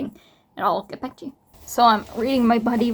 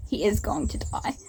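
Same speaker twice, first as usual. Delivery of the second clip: whisper; 5 dB quieter than usual. Real, not acted. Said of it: "whispered doom".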